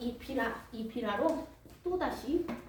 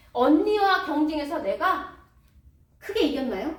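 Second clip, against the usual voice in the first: triumphant; 5 semitones higher, 9 dB louder than usual. Acted. 라헬의 승리 강조.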